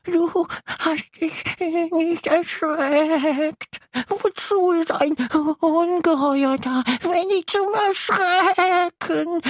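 high, slow little monster voice; a small monster wanting to be scary, pleading; kleines Ungeheuer. Acted. (kleines Ungeheuer, hoch und langsam)

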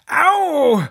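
sharp high loud ouch; howl of pain. A narrator's reading. Fox hitting his head on the cupboard door, yelp. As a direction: yelp as if the head really hurt. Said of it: "heulte der Fuchs auf".

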